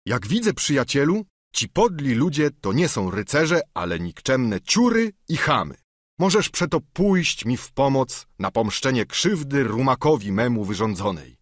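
a hint of a proud knight in uproar; knight's voice. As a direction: knight rallying his squire, mildly heated. Don Quixote voiced.

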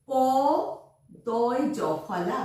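দয় জফলা drawn out very slowly; slow spelling. Shown as a demonstration. Teacher spells দয় জফলা slowly for the children. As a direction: spell it out syllable by syllable. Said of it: "spelling out".

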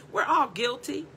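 whispered confession to the room. Real, not acted. Preacher confessing to the congregation in a whisper. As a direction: breathe it out as a whisper. Whispered, then repeated aloud.

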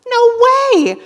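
high put-on squeak of a no; clipped dismissive high voice; mock stubborn refusal. Comic refusing to go to the ER, squeaky voice.

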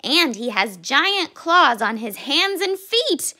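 wailing. A narrator's reading. Cassie describes the bully's giant claws, wailing. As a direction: wail it like a worried little cub. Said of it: "wailed Cassie".

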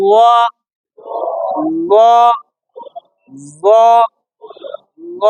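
"ল" said thick, with rounded lips; rounded-lip sound. Shown as a demonstration. Teacher models the letter with rounded lips, thick "ল". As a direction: round the lips fully on each "ল". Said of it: "জটা বলার সময় ঠোঁট গোল".

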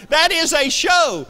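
high, loud, slow incredulous yell; mock outrage at gullible viewers; exasperated shout. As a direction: bellow it word by word.

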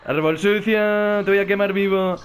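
slow, loud mock threat. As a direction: threaten the tree, drawn out. Amenaza al árbol. (amenaza burlona y lenta)

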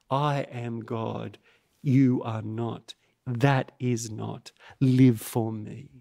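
low, slow, measured authority; solemn divine declaration. Acted. Preacher speaks as the risen Jesus to idolaters, solemn and commanding. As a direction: state it slowly and low, word by word.

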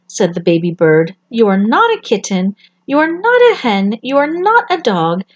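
lightly high, happy little chick; a baby bird finally sure. Acted. Baby bird answers mother.

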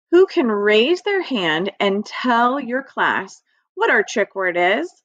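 normal talking voice

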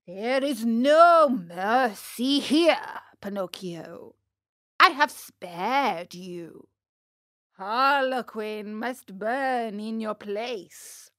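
slow, lightly voiced ogre; heavy, drawn-out storybook verdict; stern puppet master refusing. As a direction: pronounce the sentence slowly and firmly. Fire Eater refuses mercy.

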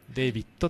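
デイビッド read the English way, "DAY-vid"; デイビッド as in English David; English-style reading. Shown as a demonstration. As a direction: give デイビッド an "ei" in the first syllable. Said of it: "英語的な読み方ですね".

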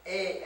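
A drawn out as a long "ay"; long vowel demo. Shown as a demonstration. Pastor repeating the word's last vowel, A as a long "ay". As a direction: sound A alone, firmly, as "ay". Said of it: "it's a long vowel sign".

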